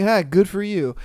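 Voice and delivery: flat dismissive good for you; sarcastic. Retold or imitated. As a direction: throw it away, unimpressed. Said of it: "They're just like".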